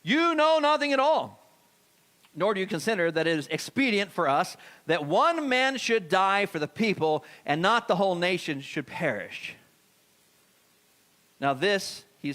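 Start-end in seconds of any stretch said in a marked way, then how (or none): 0.0-9.6 high priest rebuking, slower and higher at first; high priest's rebuke. Acted. High priest scolding the Pharisees, slow and stern. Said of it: "said to them".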